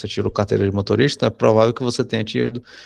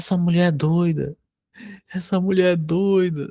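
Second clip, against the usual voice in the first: mock sobbing, high and tearful, through tears; 8 semitones higher than usual. Retelling what a girl said when she came back before the test, imitating a girl crying.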